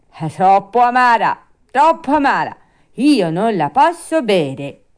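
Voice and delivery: loud, high puppet complaint; Pinocchio, whining. Acted. Puppet refuses the bitter glass, whining. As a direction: protest like a fussy child, stretching the last refusal.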